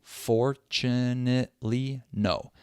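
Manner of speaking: FORTUNATELY stretched out syllable by syllable, then a falling NO; slow syllable demo. Shown as a demonstration. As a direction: sound out every syllable of FORTUNATELY slowly, then NO. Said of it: "So now listen".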